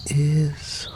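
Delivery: put-on high awed girl whisper; high whispered wonder. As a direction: breathe it out in awe. Sarah voiced in story.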